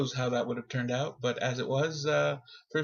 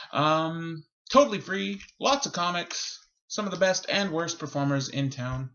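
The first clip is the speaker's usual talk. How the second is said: announcer voice. Acted. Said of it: "Here comes the voice".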